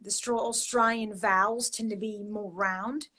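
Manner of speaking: Australian accent with rounded vowels. Shown as a demonstration. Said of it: "I try to do Australian as well".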